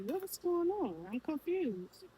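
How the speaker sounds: mock confusion. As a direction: imitate someone baffled, stretching the question. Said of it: "somebody's like ... I'm confused".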